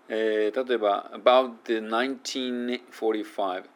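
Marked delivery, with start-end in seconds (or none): 1.1-3.6 "about the nineteen forty-five" with no added vowels; syllable demo. Shown as a demonstration. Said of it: "余分な母音を入れない".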